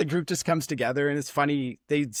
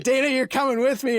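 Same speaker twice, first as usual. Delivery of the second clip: playful command; 12 semitones higher, 5 dB louder than usual. Retold or imitated. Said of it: "and he's like".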